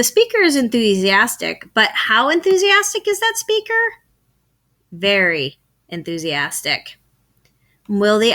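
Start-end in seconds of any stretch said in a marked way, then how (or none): 1.7-7.0 teacher quiz and answer, with "Very" stressed. Shown as a demonstration.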